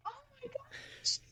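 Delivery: high, breathless oh my gosh; thrilled gasp. Retold or imitated. Reacting to the podcast invite, high and breathless. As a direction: squeal of delighted surprise.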